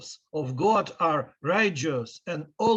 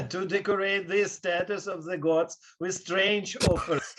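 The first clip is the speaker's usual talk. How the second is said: laughing; 2 semitones higher than usual. Acted. Suppliant mocks king with laughter.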